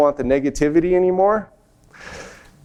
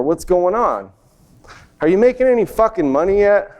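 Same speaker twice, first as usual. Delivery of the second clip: scolding dad; 2 semitones higher than usual. Retold or imitated. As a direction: nag like a fed-up father, building toward the end. Dad scolding his son.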